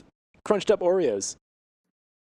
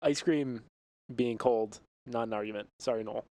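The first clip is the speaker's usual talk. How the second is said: librarian voice; 5 semitones lower than usual. Acted. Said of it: "What's with this librarian voice here".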